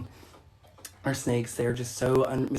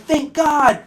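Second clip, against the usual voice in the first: high, playful cry of relief; mock relief; 9 semitones higher, 4 dB louder than usual. Baby turtle finally reaching the water, in mock relief. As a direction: exclaim as the turtle reaching safety. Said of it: "and you're like".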